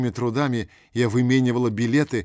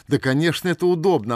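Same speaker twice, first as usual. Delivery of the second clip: louder, higher glad reply; delighted; 7 semitones higher, 7 dB louder than usual. A narrator's reading. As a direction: burst out gladly. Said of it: "обрадовалась я".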